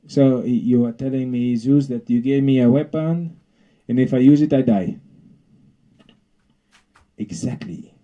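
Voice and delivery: the bee mimicking Zeus's foreign accent; mock accent. Bee mocking Zeus's accent to his face. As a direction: parrot his accent back cheekily. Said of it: "Are you mocking my accent".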